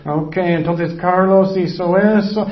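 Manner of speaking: slow, drawn-out mock note-taking; lightly voiced musing while writing; Jesus writing sins. Jesus writing Carlos's sin on the ground, lightly acted musing. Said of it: "Él escribió".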